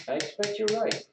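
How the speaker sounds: mild, colorless agreement; perfectly calm. A narrator's reading. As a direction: agree easily, giving nothing away. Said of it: "His voice was perfectly calm".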